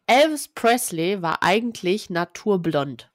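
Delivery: overdriven, distorted microphone; clipping distorted mic. Real, not acted. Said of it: "du übersteuerst ein bisschen".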